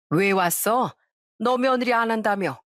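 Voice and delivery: mildly curt mother-in-law. Acted. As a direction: greet an unwelcome returnee grudgingly. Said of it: "시모도 끝까지 퉁명스럽게 얘기를 하더라고요". (살짝 퉁명스럽게)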